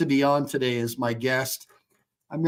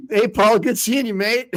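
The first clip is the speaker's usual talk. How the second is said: higher, louder cheery hello to Paul; hearty greeting; 8 semitones higher, 4 dB louder than usual. Real, not acted. Lawyer welcoming his Marine guest, loud and cheery.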